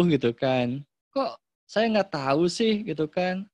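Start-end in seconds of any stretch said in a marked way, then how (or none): 1.1-2.8 slow, high-pitched wondering; surprised curiosity. Shown as a demonstration. Parent just learning of the child's achievement, surprised. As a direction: act astonished to have missed it.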